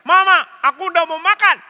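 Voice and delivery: put-on high, loud, fast child's cry; imitating a boy shouting to his mother; child calling out. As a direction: call to mama like a small kid. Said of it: "Lalu dia teriak".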